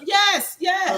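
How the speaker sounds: emphatic shout. Real, not acted. Heated panel argument, emphatic agreement.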